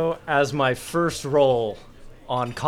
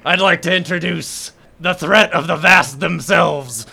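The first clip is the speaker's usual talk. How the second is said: pompous formal correction building to a louder reveal; grand announcement; 3 semitones higher, 4 dB louder than usual. Acted. Hal introduces V to the rival, grandly. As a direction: present a champion with ceremony.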